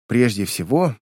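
composed, even opening; calm. A narrator's reading. Niece setting terms to her uncle, calmly. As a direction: take control without raising the voice. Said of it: "спокойно проговорила девушка".

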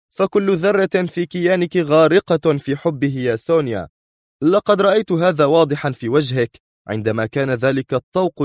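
firm accusation rising in pitch; stern. A narrator's reading. Man accuses Sonia of loving her enemy, stern. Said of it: "أجاب في صرامة".

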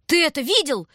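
loud, high panicked yell. Acted. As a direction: shout it in shock at her brother. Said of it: "заорала Таня".

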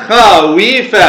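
خاويف carefully as kha-wi-fa; original form. Shown as a demonstration. Teacher answering what the origin is, خاويف carefully as kha-wi-fa. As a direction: sound out each syllable of خاويف. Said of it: "فما هو أصل خاف؟".

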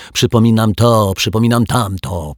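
mock her words back at her; mocking mimicry. A narrator's reading. Dominik mimics his sister's reminders, mocking. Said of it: "przedrzeźniał ją Dominik".

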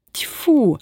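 a furious contemptuous spit; fierce spit. Acted. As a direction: spit it out ferociously. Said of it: "свирепо сплюнула Устя". (свирепо сплёвывает)

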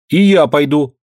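high, firm small voice; determined little boy. A narrator's reading. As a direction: declare it like a stubborn kid. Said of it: "вдруг решительно заявил Максимка".

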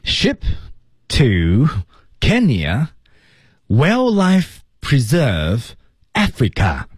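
high, slow, each word popped out separately. Shown as a demonstration. Teacher imitating the monkey translating, halting. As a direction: spit out words one at a time like reading signs. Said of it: "几乎就在蹦单词儿".

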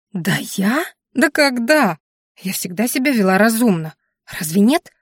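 indignant. Acted. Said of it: "спросила возмущённо".

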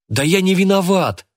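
high, loud protest; protesting shout. Acted. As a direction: yell your innocence. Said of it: "запротестовал я".

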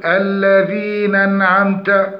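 الذين أنعمت said slowly with the hamza weakened; wrong hamza. Shown as a demonstration. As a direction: drop the glottal stop in أنعمت. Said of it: "فيقول". (لحن في نطق الهمزة)

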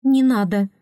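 small squeaky high voice; squeak. Acted. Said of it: "пискнул женский голос".

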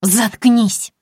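loud, high snap; angry. Acted. Snow Maiden silences Aglaya, angry. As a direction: bite off the command. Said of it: "зло проговорила Снегурочка".

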